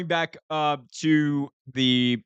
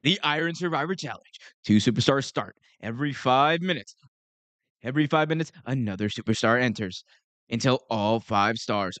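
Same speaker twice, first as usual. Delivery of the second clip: a lightly voiced ring announcer calling out the rules; mock wrestling announcer read; 2 semitones lower than usual. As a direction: announce it to the arena, only lightly hammed. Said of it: "Let me do my Justin Roberts voice here".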